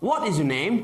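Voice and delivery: WHAT pushed up on the first word; stress on what. Shown as a demonstration. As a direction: hit What and let the rest fall away. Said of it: "What age?".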